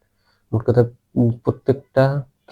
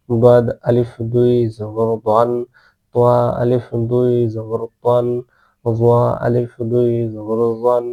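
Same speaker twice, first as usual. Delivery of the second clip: steady sing-song Quran lesson chant; measured classroom recitation, one line per letter; recitation drill; slower than usual. Shown as a demonstration. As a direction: chant each letter evenly like a teacher drilling pupils.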